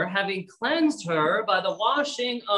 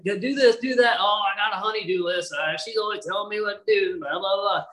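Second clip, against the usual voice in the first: quick, lightly mocking imitation of complaint; mock grumbling; faster than usual. Preacher imitating a husband with a honey-do list, mock grumbling. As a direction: rattle off a husband's grumble, dismissively.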